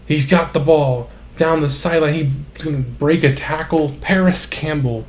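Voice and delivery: excited. Real, not acted. Big play call, touchdown run.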